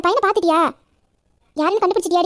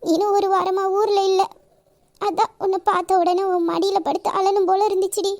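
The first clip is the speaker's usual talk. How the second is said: tearful. Acted. Distressed woman confiding in her close friend, tearful. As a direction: pour out the hurt through tears. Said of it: "ஏன் அழுவுற?".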